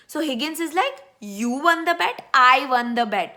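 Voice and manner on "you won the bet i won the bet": incredulous rising YOU, then emphatic I; mock-indignant retort, stressing "You" then "I"; indignant contrast. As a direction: hit "You" as a question, counter with a loud "I". Higgins indignantly disputes who won.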